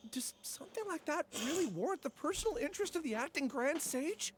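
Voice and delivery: flustered panic. Acted. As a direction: babble it out, caught and scared. Caught thief panics before sage.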